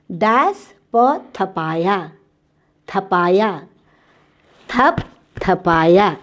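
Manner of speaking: slow, syllable by syllable; slow spelling-out. Shown as a demonstration. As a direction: draw out each sound for the class. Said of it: "तीसरा शब्द है". (धीरे-धीरे बोलकर)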